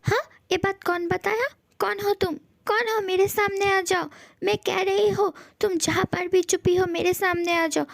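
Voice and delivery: demanding challenge. Acted. Calling out an unseen speaker to show themselves, demanding. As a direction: demand that the hidden speaker come out.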